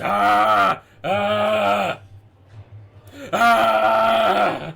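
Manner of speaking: long, loud open roar; drawn-out "aah" bellows; monster roar. Acted. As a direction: roar back three times as the rampaging beast. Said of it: "Gahoon in response just goes".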